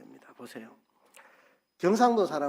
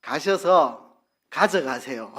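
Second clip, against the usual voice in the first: slow clear gloss; 4 dB louder, slower than usual. Shown as a demonstration. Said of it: "이 말입니다".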